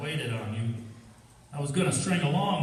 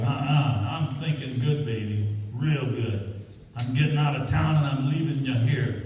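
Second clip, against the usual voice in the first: menacing; 4 dB louder than usual. Acted. Harry threatens Janet.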